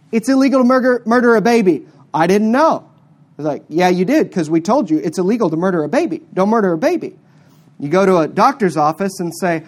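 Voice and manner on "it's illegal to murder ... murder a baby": loud, insistent voice of the law; forceful acted quote. Preacher voicing the law to a woman, loud and insistent. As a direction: lay down the law firmly.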